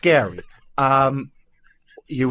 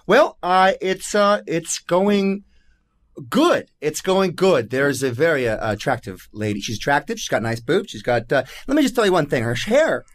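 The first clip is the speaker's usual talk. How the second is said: lightly voiced sitcom comedian; a hint of a Seinfeld bit; Jerry Seinfeld. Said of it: "Jerry Seinfeld".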